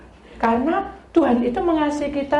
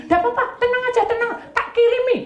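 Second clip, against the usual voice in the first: breezy doctor; 12 semitones higher, faster than usual. Retold or imitated. Doctor brushes off her worry.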